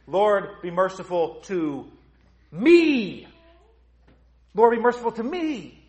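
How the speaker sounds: loud, high cry for mercy; impassioned plea. Acted. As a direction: plead upward to God, stretching the last word. Acts out the penitent's prayer.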